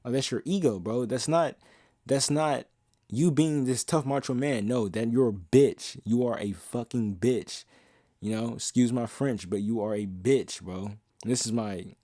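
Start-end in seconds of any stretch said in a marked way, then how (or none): 4.7-10.9 aggressive. Real, not acted. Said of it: "aggressive nature".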